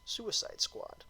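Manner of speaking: a light whisper of the title; half-whispered title tag. Pretend. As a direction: drop the title in a hushed, dramatic whisper. Title drop again mid-sentence.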